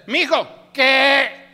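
high, loud, blunt "¿qué?"; child's shouted reply. Acted. Parent calls child, child answers, loud mock yell. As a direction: call out and answer back loudly. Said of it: "Cuando uno le enseña a los niños que le respondan".

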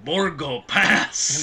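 very slow, looming "Borgo Pass"; ominous Borgo Pass. Retold or imitated. Host quoting the creepy movie line, slow and ominous. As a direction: draw it out like a spooky warning. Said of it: "the guy saying".

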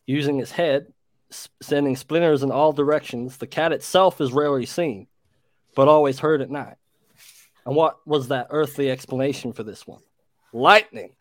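reading in a put-on American accent. Brit reads creature tale to friends on request, American accent. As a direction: read it aloud like an American. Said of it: "Yeah, American accent".

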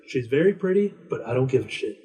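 a hint of an old man who can't be bothered; grumpy old man. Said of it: "he's like".

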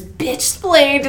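tee-hee it out, pleased with himself; giggly. Retold or imitated. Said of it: "He goes".

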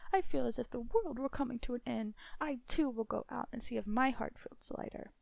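dread-filled wife. Acted. Wife feels doom coming.

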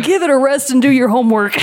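laughing scold. Retold or imitated.

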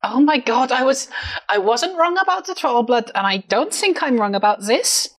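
put-on lightly accented, exasperated character voice; insistent character. Defending herself to doubting companions, insistent character voice. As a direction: insist you are right, a touch put out.

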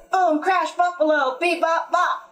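high, punchy storybook crash; excited crash sounds. A narrator's reading. Four friends jump through the window, high and excited.

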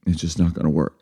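mock dramatic. Breaking up with a partner, mock dramatic. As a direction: retell it as a reluctant, emotional breakup. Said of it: "I'm being so dramatic".

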